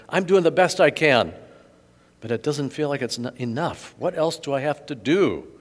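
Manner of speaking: a lightly voiced anxious do-gooder; earnest young man. Rich man pleads his case.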